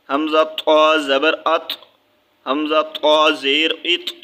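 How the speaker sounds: ات with the ط pressed and bounced; qalqala bounce. Shown as a demonstration. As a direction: press the ط of ات so it echoes. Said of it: "یہاں پر بھی ہے، ہم نے دبا کے پڑھنا ہے". (ات میں ط کو دبا کر قلقلہ کے ساتھ)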